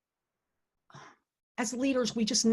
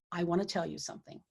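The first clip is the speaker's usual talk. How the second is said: softer, hushed retelling of the boss; very quietly; 4 semitones lower, 9 dB quieter than usual. Retold or imitated. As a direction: boss leans in and speaks low to young manager, hushed. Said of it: "And then very quietly".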